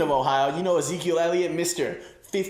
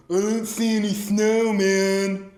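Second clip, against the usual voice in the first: lightly voiced buddy Jake; 6 semitones higher, 5 dB louder, slower than usual. Voicing Jake's reply.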